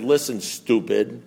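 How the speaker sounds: slow, blunt put-down; blunt sponsor. Retold or imitated. Sponsor who loved him talking straight, blunt.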